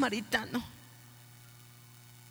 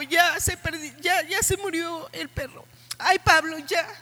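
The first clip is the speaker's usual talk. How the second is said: retold tearful prayer; 3 semitones higher than usual. Mother recalling her prayer for her son, mildly tearful. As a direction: replay a remorseful prayer with a catch in the voice. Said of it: "yo estaba llorando y yo decía".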